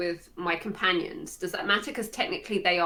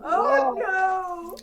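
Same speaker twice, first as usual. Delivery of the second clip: high dismayed wail; 11 semitones higher than usual. Real, not acted. Reacting to a shocking reveal.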